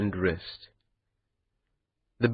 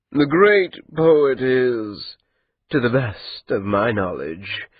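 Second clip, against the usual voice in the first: unhurried, lightly amused drawl; amused and calm; slower than usual. Acted. The andat telling Maati the poet lives, amused and calm. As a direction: savour every word, untroubled. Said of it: "his voice amused and calm".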